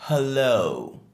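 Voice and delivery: Hello with a clear breathy H; H sounded. Shown as a demonstration. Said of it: "Le H est bien prononcé". (Hello avec le H bien prononcé)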